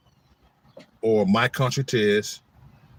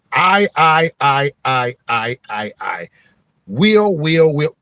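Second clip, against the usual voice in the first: rapid repeating; 2 semitones higher, 7 dB louder, much slower than usual. Shown as a demonstration. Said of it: "easy way to do it".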